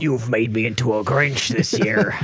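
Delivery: put-on slow, light Chicago accent; a hint of a Chicago accent. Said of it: "This is my traditional Chicago accent".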